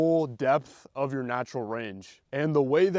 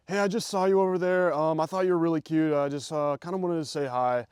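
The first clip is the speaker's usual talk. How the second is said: fast, higher, hurried pickup line; rushed nervous opener; 3 semitones higher, faster than usual. Shown as a demonstration. Guy approaching a girl he just saw, rushed and nervous. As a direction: rush through it nervously, barely stopping. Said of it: "start speeding up and, like, getting through".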